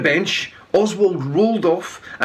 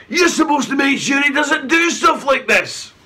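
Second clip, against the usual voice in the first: angry scolding; 9 semitones higher than usual. A narrator's reading. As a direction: blame her furiously. Chief scolds Velda.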